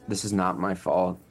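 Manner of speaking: normal talking voice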